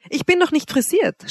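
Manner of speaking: light, high-pitched and smiling. A narrator's reading. Woman peeking round her door, smiling. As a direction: say it with a smile, pitched well up. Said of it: "sprach sie lächelnd".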